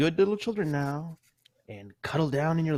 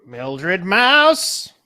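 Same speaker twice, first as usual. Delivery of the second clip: calling out sharply; 8 dB louder than usual. Acted. Mother calls naughty child.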